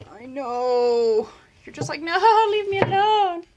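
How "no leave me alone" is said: high, loud grumpy pet voice; snake's grumpy voice. Pretend. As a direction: voice the annoyed snake.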